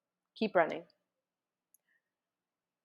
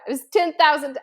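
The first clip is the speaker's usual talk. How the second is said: "ten" punched louder and higher; stress on ten; 5 semitones higher, 6 dB louder than usual. Shown as a demonstration. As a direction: insist on "ten" firmly. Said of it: "But no".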